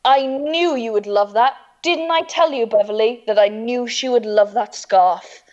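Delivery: overselling dad. Retold or imitated. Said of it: "He had to oversell it".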